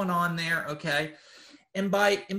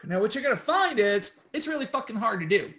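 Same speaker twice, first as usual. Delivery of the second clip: laughing; 2 semitones higher, 3 dB louder than usual. Real, not acted. Admits the exercise is hard.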